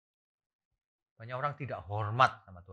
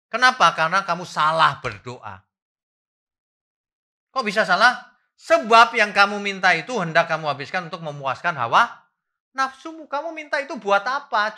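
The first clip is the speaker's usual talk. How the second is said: high, loud fiery preaching; preaching at full force; 7 semitones higher, 10 dB louder than usual. Acted. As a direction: drive it home to the congregation. Preacher hammering the point. (khotbah berapi-api, tinggi dan keras)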